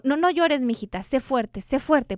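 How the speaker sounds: lightly voiced parent telling a daughter not to cry; imitating scolding parent. Host imitates a parent hushing a crying daughter, mildly stern. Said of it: "nos han enseñado que".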